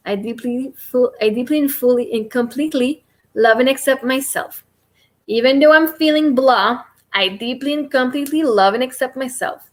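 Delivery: calm, even affirmation repeated like a mantra; tapping affirmation demo. Shown as a demonstration. Coach showing viewers the tapping script, steady affirmation voice. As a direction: recite it steadily, one phrase after another. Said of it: "You would say".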